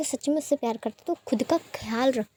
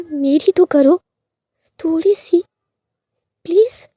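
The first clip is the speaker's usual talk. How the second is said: louder angry rant rising to a high plea; angry scolding; 4 semitones higher, 6 dB louder than usual. Retold or imitated. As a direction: scold him, then break into begging. Lanzhan scolding Wing in anger. (Wing को डांटता लैंजन, गुस्से में ऊँची आवाज़)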